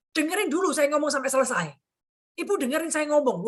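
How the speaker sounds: retold scolding. Client cutting off the interrupting agent, mock scolding. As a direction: imitate an irritated client demanding to be heard. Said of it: "Langsung dia bentak saya, gebrak meja".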